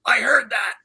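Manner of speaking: excited retold whisper; whispered aside. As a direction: hiss it to the friend right beside you. Friend whispers behind him.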